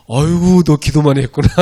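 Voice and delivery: loud, hearty praise, a touch hammed-up; praising pastor. Youth pastor praising student who prayed hard, loud hearty praise. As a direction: beam approval at the hoarse kid. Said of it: "전사님이 칭찬해요".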